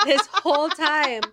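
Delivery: high, loud mock wail; crying. Teller learns of the easy way out, crying. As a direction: burst into acted sobs of disbelief. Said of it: "I cried all over again".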